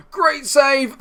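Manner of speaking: sharp gasp then a high cry; gasp, then shout it out; gasping surprise. Real, not acted. Gasp at a save in match.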